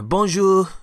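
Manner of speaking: high, loud French greeting; a bright, loud French "Bonjour"; French accent. Acted. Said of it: "He's French, isn't he?".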